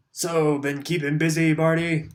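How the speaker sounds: loud, high, carefree greeting; breezy. A narrator's reading. Bagman asking after Barty, breezy. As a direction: toss it out cheerily and loud. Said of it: "said Bagman breezily".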